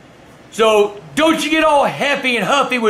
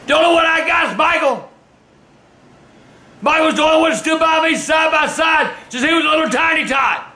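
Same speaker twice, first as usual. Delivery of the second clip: angry shout; 5 semitones higher than usual. Real, not acted. Father ranting at his children.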